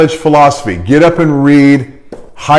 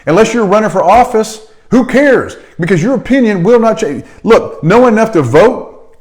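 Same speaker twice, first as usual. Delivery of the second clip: worked-up rant; 8 semitones higher than usual. Real, not acted. To listeners obsessed with politics, a higher exasperated rant. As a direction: pitch climbs higher, voice rising in exasperation.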